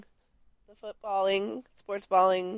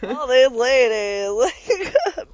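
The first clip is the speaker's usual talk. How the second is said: overwhelmed mock kid, higher and giggly; kid in candy shop; 4 semitones higher, 5 dB louder than usual. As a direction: play dazzled like a kid let loose among sweets. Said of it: "like a kid in a candy shop".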